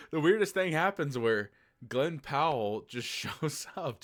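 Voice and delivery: amused laughing telling. Real, not acted. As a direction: burst into it through a laugh. Retelling the twist while laughing.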